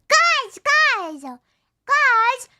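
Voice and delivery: high, loud calls for attention; calling out. Real, not acted. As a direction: yell to get the chat's attention. Calling out to viewers.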